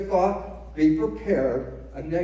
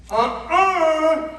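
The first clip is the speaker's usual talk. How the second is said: loud, high, drawn-out refusal; emphatic loud no; 8 semitones higher, 7 dB louder than usual. Real, not acted. Lecturer to audience, a loud, high, emphatic no. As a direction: shut the idea down hard. Rejecting science fiction label.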